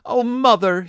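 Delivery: high, mildly acted child's sob; sobbing child. A narrator's reading. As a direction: wail it lightly like a small child. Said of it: "she sobbed".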